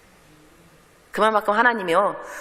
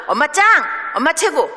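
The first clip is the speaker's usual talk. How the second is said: mock cheering daughter; 6 semitones higher, 4 dB louder than usual.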